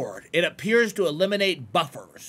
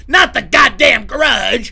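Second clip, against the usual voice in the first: slow loud yell; scared shout; 5 semitones higher, 11 dB louder, much slower than usual. Real, not acted. Streamer yells at the grudge on screen, slow and loud. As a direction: bellow in fright at the monster.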